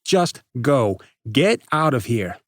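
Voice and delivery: loud, cold dismissal; cold hard rejection. Acted. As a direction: say it like a door slamming. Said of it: "cold and hard".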